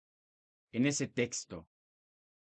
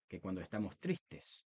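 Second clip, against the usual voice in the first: lower, softer, falling into sadness; sad voice; 4 semitones lower, 9 dB quieter than usual. Shown as a demonstration. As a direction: let the voice sink as if sad. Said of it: "nuestra voz no es la misma". (voz triste, baja y apagada)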